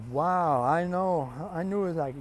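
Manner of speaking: big acted "wow" delivery; mock amazement. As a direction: play up an appalled reaction. Acted reaction to tasting flames.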